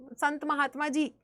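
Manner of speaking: a hint of a tiny baby calling out; teacher voicing the infant prince, mildly childlike; child's voice. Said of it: "बच्चे की आवाज में बोला".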